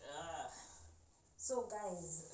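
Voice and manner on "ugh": low soft groan of pain. Real, not acted. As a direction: groan through the stitch. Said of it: "I can't even talk".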